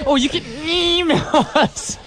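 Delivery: hammed-up strained mimic; mocking imitation. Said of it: "You're like".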